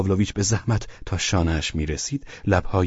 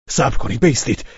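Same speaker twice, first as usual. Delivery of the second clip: brief raised call; 6 semitones higher, 6 dB louder than usual. A narrator's reading. Host stops guest at the door, calling out. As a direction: call him back sharply. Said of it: "فریاد کشید".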